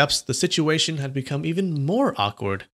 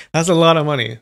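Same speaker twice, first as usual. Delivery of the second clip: laughing; 2 semitones higher, 7 dB louder, faster than usual. Real, not acted.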